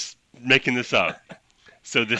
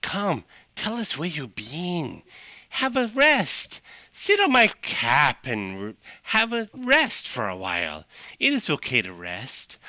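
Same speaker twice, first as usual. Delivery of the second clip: soothing mushroom; 3 semitones higher than usual. Acted. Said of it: "another was like".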